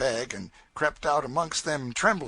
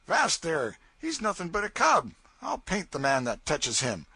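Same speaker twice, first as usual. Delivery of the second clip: higher, commanding raftsman; firm protective Davy; 6 semitones higher than usual. Acted. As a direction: stand up for the cub. Davy defends the boy.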